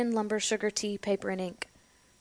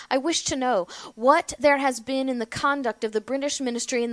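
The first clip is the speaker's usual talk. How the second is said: put-on louder declaiming of an old speech; Patrick Henry's oration; 5 dB louder than usual. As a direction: read it out like a founding orator. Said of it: "Patrick Henry said in his speech these words".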